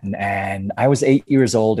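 slow, put-on American accent; Australian demonstrating American speech. Shown as a demonstration. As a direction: say it as an American would. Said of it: "an American accent for me".

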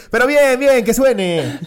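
orden aguda y fuerte, en broma; maestro incitador. Acted. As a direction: azuza al alumno alzando la voz. Imita al maestro incitando el golpe. (profe de parodia exigiendo con ganas)

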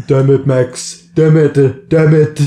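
frustrated. Acted. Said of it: "And he's like".

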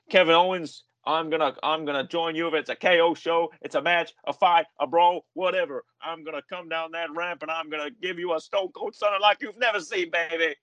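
lightly hammed wrestling promo snarl; Stone Cold impression. Stone Cold promising Kevin Owens a Stunner, mock tough. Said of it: "And he says".

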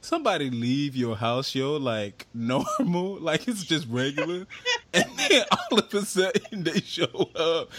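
high voice breaking into helpless laughter; cracking up at the absurd call; laughing. Real, not acted. Retelling the phone call, laughing.

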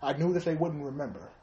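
mock confession, quietly in character; Bill Cosby. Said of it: "raping and talking like that".

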